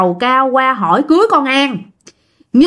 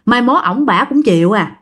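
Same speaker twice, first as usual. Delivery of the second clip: consoling; 2 semitones lower than usual. Retold or imitated. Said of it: "ba mới an ủi".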